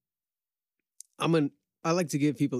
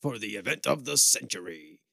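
monster truck ad. Pretend. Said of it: "monster truck rally commercials".

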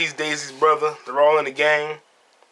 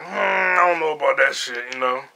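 hesitant Mannix. Retold or imitated. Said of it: "And Mannix like".

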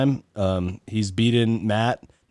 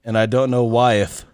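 hammed-up fake olde English, adding eth to the words; reading lyrics in a silly faux British voice; mock British accent. Host reads a band's lyrics to guests in mock British accent. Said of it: "in my, uh, British voice".

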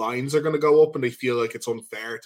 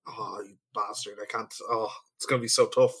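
quiet, mock-despairing grumble; dismayed groan; 3 semitones lower, 3 dB quieter than usual. Bet loser faces the forfeit, mock dismay. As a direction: grumble softly like a sore loser.

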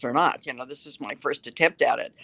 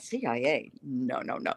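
softer, incredulous inner voice; inner thought; 3 semitones lower, 8 dB quieter than usual. Retold or imitated. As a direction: mutter it to yourself in disbelief. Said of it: "I thought".

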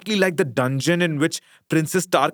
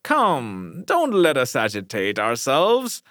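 honeyed; slower than usual. Acted. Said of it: "observed in a honeyed voice".

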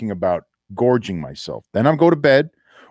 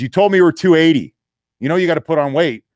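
scolding GM voice; 6 semitones higher, 5 dB louder than usual. Retold or imitated. GM scolding in story.

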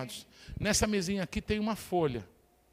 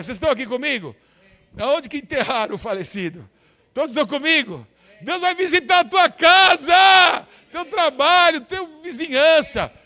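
preaching at full force; 7 semitones higher, 14 dB louder than usual. Acted. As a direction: roar the promise to the church.

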